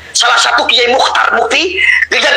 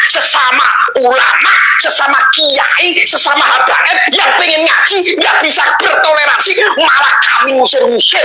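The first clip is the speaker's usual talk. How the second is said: crying shout; 6 semitones higher than usual. Real, not acted. Pleading to the police about fellow Muslims, tearful shout. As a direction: voice breaking as he cries out.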